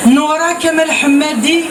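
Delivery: measured verse delivery, line by line; recited poem with cadenced line endings; poetry recitation. Acted. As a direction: declaim the poem, pausing after each line. Recites verse after chatting.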